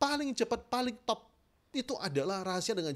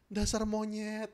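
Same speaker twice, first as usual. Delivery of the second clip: gentle insult; 2 semitones higher, slower than usual. Shown as a demonstration. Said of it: "Kan ini dihalusin gini".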